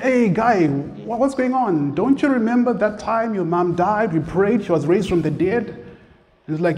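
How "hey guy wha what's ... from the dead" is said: higher, pleading with disbelief; incredulous pastor. Retold or imitated. Pastor urging his old friend, incredulous and higher. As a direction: remind him, astonished he forgot.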